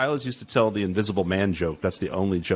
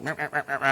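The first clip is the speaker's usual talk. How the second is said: mock yammering; 6 semitones higher, 4 dB quieter, much faster than usual. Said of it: "I'll be the guy".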